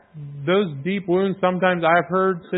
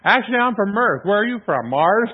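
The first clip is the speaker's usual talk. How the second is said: cheeky higher sarcastic reply; mock retort; 5 semitones higher than usual. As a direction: play the joke back, lightly amused. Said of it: "I wanted to go".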